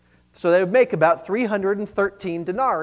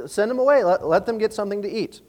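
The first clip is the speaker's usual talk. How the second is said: higher, gently reasoning appeal; raised pitch, polite suggestion; thoughtful, reasonable; 5 semitones higher than usual. Acted. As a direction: make a considerate suggestion to your leader. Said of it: "very thoughtfully, very reasonably, they say".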